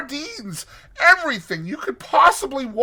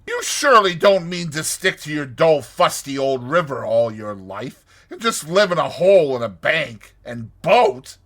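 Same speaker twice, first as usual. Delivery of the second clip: high, loud, insistent pleading; imploring; 7 semitones higher, 10 dB louder than usual. A narrator's reading. Toad urging Rat to leave the river, imploring. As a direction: press him hard, pitched well up. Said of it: "said Toad imploringly".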